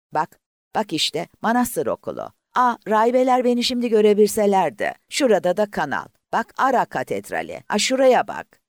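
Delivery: high, loud, breathless pointing out sights; excited. A narrator's reading. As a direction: gush like a thrilled girl seeing her town from the air. Girl excitedly pointing from the plane.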